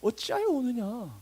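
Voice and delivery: high, soft, slow mock questioning; knowing bemusement. Angel who knows of the resurrection to the weeping woman, softly bemused. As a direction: draw it out high, as if there's nothing to cry about. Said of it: "그 반응인 겁니다".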